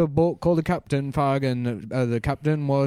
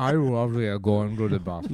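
put-on Indian accent; 4 semitones lower, 3 dB quieter than usual. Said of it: "when you do an Indian voice".

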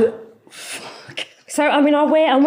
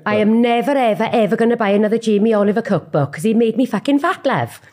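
light Welsh lilt ending on love; a mild south Wales rant; Welsh accent. Acted. Mum in a Welsh-off doing a mild Welsh accent. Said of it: "it's a Welsh off".

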